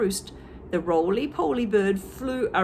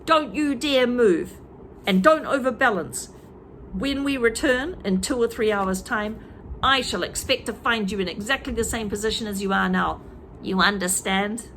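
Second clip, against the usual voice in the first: stern order; 2 semitones higher than usual. Acted. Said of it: "Mister Twit ordered".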